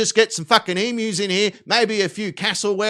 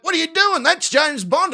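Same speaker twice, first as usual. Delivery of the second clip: high, alarmed mock disbelief; shocked bystanders; 10 semitones higher, 4 dB louder than usual. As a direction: play the horrified crowd in his story.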